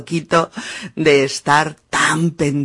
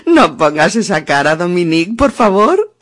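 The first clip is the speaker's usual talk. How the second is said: laughing plea; 5 dB louder, faster than usual. Real, not acted. Ruega riendo a Dominique.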